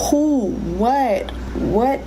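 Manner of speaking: firing questions in rising alarm; panicked. Retold or imitated. To the nurse, demanding answers, frantic and high.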